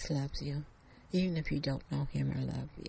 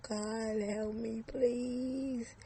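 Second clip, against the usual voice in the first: screaming for help; 6 semitones higher, much slower than usual. Acted. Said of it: "She screamed as loud as she could".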